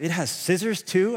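put-on a light childlike voice asking in wonder, rising at the end; amazed little boy asking; imitating three-year-old son. Son asking dad about the knife, lightly childlike wonder. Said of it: "He goes".

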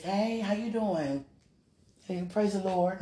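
soft, drawn-out greeting unlike own talk; put-on polite greeting. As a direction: greet sweetly in a slightly put-on church voice. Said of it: "I don't talk like that".

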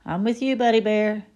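hint of a playful tiger; lightly voiced Tigger. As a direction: give it a bit of Tigger bounce. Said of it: "said Tigger".

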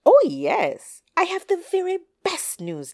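loud, high oh yes; eager declaration. A narrator's reading. Coyote assures the doubtful hen, eagerly declaring. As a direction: proclaim it like the best news ever. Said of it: "declared Coyote".

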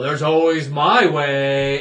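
1 spooky host. Retold or imitated. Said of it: "like, you know".

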